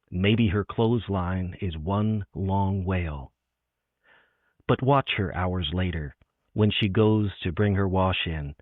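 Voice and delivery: measured, unhurried poetry reading with long pauses; careful recital with room between lines; poem reading. Acted. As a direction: read it like a poem on a stage, letting each image land. Reads her poem aloud.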